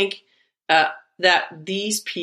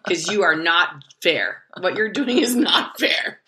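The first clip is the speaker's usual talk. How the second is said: laughing mock rant. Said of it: "I'm like".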